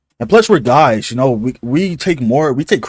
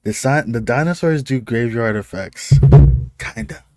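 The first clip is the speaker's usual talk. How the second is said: reading in disbelief; 2 semitones lower than usual. Real, not acted. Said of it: "let me read that again".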